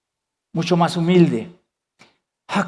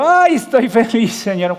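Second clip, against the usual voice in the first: fake cheer; 3 semitones higher than usual. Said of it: "soy hipócrita y digo".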